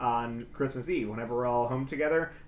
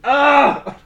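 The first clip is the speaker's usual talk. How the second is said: much higher, louder strained groan; exasperated mom; 8 semitones higher, 12 dB louder, much slower than usual. Retold or imitated. Mom pinned under the dog in her chair. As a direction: complain as a squashed mom. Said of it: "She's like".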